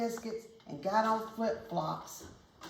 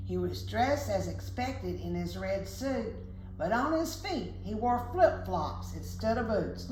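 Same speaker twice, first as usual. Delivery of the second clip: lilting rhymed storybook reading; measured picture-book narration; story narration; 3 semitones higher than usual. A narrator's reading. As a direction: read a rhyme aloud to children. Reads a rhyming story aloud.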